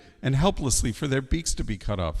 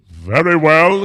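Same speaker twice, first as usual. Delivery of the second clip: loud, higher royal proclamation; confident king; 7 semitones higher, 11 dB louder, slower than usual. Acted. King accepts bird's challenge, loud and confident. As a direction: accept loudly as a proud king.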